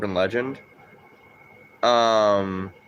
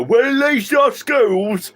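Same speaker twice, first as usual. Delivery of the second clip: slow, much higher, louder mock British accent; 13 semitones higher, 6 dB louder, much slower than usual. Mocking British zombie soldiers in a game, hammed-up British accent. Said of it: "They go".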